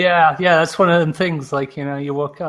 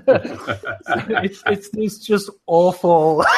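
laughing; 3 semitones higher, much slower than usual. Real, not acted. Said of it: "It's this awful colloquial accent".

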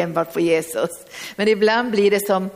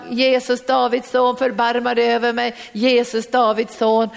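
crying out; 3 semitones higher than usual. Acted. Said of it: "han börjar ropa".

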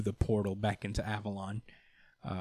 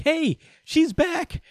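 high, louder drawn-out announcement; excited calling out; 5 dB louder, much slower than usual. Retold or imitated. Niece bursts through the portal announcing Betsy, excited call.

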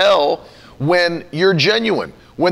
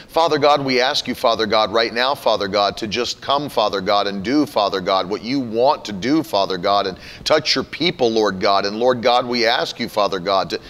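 lower, droning mock prayer; filler-word prayer; 5 semitones lower than usual. Mocking someone with no prayer life, droning prayer. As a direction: parody a prayer stuffed with Father God. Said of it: "filled with filler words".

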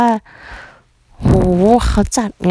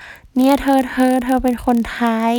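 a lightly voiced chatty auntie, a touch higher and slower; imitating the aunties; 5 semitones higher, slower than usual. Auntie calling the Thai girl over, lightly voiced. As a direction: play the friendly auntie calling her over.

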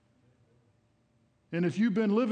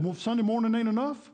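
mock disbelief, louder and higher; incredulous questioning; 5 semitones higher, 4 dB louder than usual. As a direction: imitate a baffled stranger, pitched up. Acting out a puzzled stranger's question.

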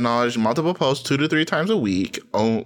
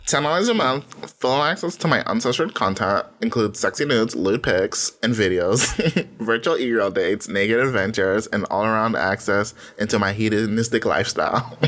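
put-on shitty girl accent. Reading her Patreon tiers in a mock girl voice. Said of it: "in my typical shitty girl accent".

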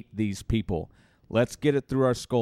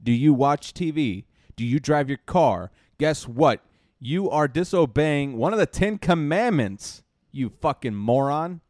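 louder, rising anger, jabbing questions; real heated outburst at Christian hypocrisy; heated rant; 4 semitones higher, 4 dB louder than usual. Real, not acted. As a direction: get heated and hammer each question. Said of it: "I'm getting a little heated about this".

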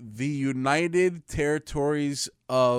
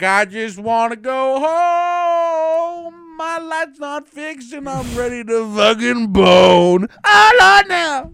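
high, loud, drawn-out whine; loud whiny quote; 11 semitones higher, 12 dB louder, slower than usual. Retold or imitated. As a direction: wail it slowly and loudly. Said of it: "I'm like".

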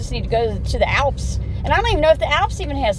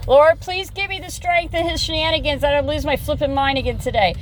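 praying for patience. Retold or imitated. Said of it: "I sat there and said".

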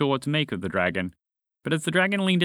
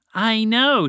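much higher, louder gushing reply; excited; 10 semitones higher, 6 dB louder than usual. A narrator's reading. Roger squashing her friends, excitedly gushing. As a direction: burst out with delight. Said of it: "she said excitedly".

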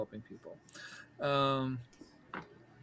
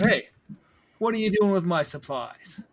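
gruff settler calling out, a touch louder; 5 semitones higher, 5 dB louder than usual. Acted. GM voicing the lumber owner, gruff call. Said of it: "a gruff voice call out".

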